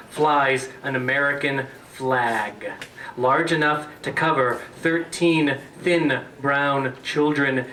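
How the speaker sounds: measured, deliberate recital; poetry reading. Acted. Poet reading an early poem to an audience, deliberate recital. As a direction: linger on each phrase with falling cadences. Reads own poem aloud.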